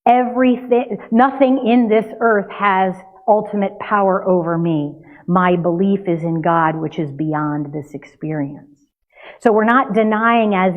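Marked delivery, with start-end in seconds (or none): 0.0-8.8 right denial. Shown as a demonstration. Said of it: "the denial is".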